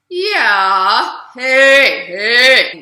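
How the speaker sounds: very loud, forward chest-voice calls. Shown as a demonstration. Teacher demonstrating forward focus, loud chest voice. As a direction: call it out big and bulky. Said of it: "thinking chest voice".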